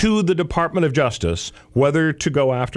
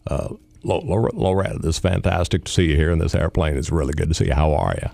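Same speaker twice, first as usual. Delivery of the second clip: lightly voiced Bill Clinton, lower; a hint of an ex-president chatting; playing Bill Clinton; 6 semitones lower than usual. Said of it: "I'll be playing the part of the president".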